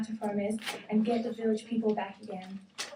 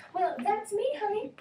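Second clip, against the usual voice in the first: much higher, a bit louder; loud exclamation; 11 semitones higher than usual. Acted. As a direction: announce yourself like a proud elephant. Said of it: "exclaimed the elephant loudly".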